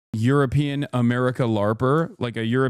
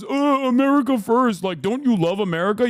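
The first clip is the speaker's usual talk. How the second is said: high, loud mock of a dumb MAGA fan; 8 semitones higher, 3 dB louder than usual. Mocking the America First crowd, high and loud. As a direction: sneer it out like a clueless flag-waver. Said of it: "your dumb ass turns around and goes".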